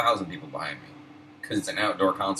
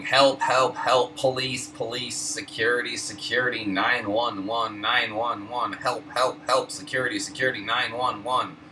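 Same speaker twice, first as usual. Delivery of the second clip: imitating a panicked old woman calling for help, raised and high; hammed-up cry for help and police; shrill mock alarm, help and security; mock panicked yelling; 4 semitones higher than usual. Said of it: "his wife starts yelling".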